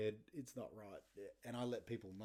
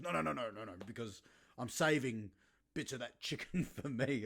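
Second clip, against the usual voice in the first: loud refusal; 6 dB louder than usual. Retold or imitated. Dad guarding his chicken.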